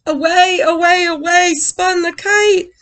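breathless dramatic reading; excited storytelling. A narrator's reading. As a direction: let the kite whirl away. Kite out of control.

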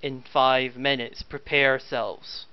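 slow robotic announcement; flat robotic ship voice. Acted. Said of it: "in a very robotic voice states".

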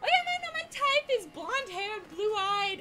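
squeaky high voice, teasing; high mocking quote. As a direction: pitch it way up, mocking. Mocking own past claim, high.

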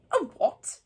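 Harry, interested. A narrator's reading. Harry asking Hagrid about a strange word, interested. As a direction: ask with keen interest.

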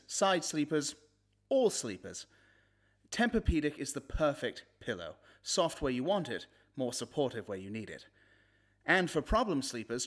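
ordinary talk, nothing marked

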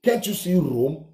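lightly voiced mock of the leader; mild mock quote. The ranter first mocks Kanu to viewers, lightly voiced. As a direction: toss off "Can't you see Rome?" in a hint of his voice. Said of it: "He said".

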